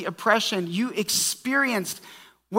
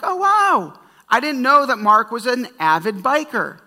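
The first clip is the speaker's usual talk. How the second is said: mock surprise; 4 semitones higher, 5 dB louder than usual. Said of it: "if right now you're like".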